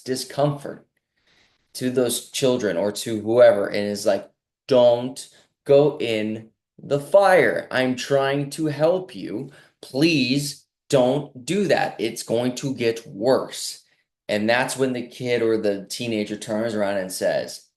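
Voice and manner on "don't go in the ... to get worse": put-on slow, earnest plea to a child, a bit louder at the start; slowed-down parental pleading, trying to protect. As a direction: beg them gently to stay away from danger.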